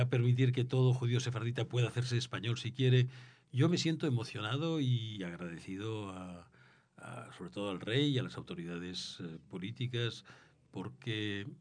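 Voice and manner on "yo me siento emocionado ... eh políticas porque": sincere gratitude, softer and trailing; emocionado y agradecido. Real, not acted. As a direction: speak with quiet, halting emotion. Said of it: "Es emocionante". (emocionado y agradecido, en voz más baja)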